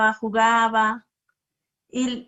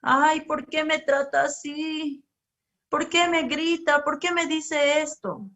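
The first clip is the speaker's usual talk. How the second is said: put-on higher plaintive child asking why; hurt child's complaint; 5 semitones higher than usual. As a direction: play a wounded little kid whining. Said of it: "Esa persona o ese niño sufre".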